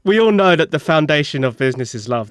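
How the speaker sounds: deadpan sarcasm in an everyday voice; sarcastic. Acted. Repeating it for the offended co-host, dry sarcasm. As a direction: repeat it evenly, tongue in cheek. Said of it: "That was sarcasm".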